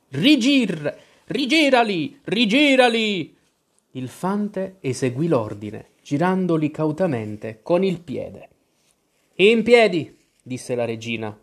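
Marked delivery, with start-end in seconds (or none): 0.1-3.3 high, insistent angry command; an irate queen's shrill-pitched order; furious. A narrator's reading. Queen orders the knave to turn them over, furious. 9.4-10.2 high, loud barked order; piercing royal command; loud and shrill. A narrator's reading. Queen orders gardeners to their feet, loud and shrill. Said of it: "con voce forte e acuta".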